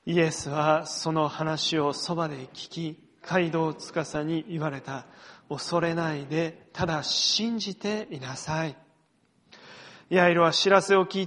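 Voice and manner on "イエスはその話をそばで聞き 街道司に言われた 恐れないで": slow, measured scripture reading read along with the congregation; slow congregational reading. Shown as a demonstration. Pastor leading the church in reading, slow and measured. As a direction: read it slowly so all can follow. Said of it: "ご一緒にお読みしましょう".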